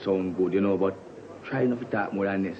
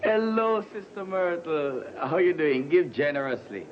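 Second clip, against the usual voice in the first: sing-song church greeting; 4 semitones higher than usual. Acted.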